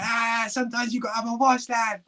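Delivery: high, gummy toothless Scouse voice. Retold or imitated. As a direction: talk like a man with no teeth. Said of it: "with no teeth, going".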